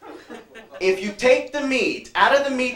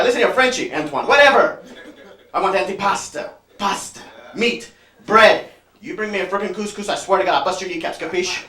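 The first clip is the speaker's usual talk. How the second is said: mock tough Italian wise guy, a little louder; lightly hammed mobster threat; 4 dB louder than usual. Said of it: "So I turn to the guy".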